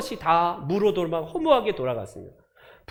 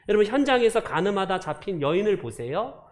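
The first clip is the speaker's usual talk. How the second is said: ordinary delivery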